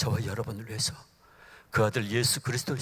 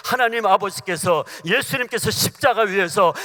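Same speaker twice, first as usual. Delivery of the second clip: louder and louder, slowing into the cross; preaching at full force; 5 semitones higher, 9 dB louder than usual. Acted. Preacher rising before the congregation, building fervour. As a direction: build the sermon to a peak.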